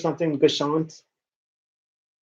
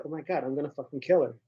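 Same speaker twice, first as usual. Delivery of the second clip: hushed realization; 3 semitones lower, 12 dB quieter, faster than usual. Retold or imitated. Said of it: "And I just said".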